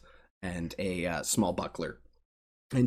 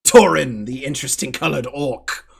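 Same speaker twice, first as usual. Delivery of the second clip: arena announcer; 4 semitones higher, 9 dB louder than usual. Acted. Announcer introducing gladiators.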